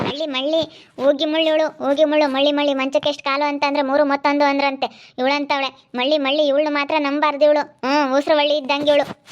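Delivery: loud, heated name-calling; angry scolding. Acted. Name-calling in an acted family quarrel. (ಕೋಪದಿಂದ ಜೋರಾಗಿ ಬೈಯುತ್ತಾ)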